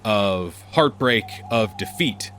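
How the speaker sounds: steady storytelling narration with dramatic pauses; game master scene setting. Acted. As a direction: set the scene like a dungeon master. DM scene-setting recap over music.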